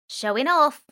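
high, loud mocking repeat; dismissive punk girl voice. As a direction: throw his words back at him.

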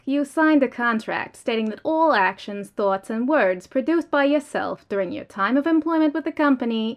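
cold, formal company official; stern corporate voice. Acted. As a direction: lay out the rules like HR. Corporate official explains firing.

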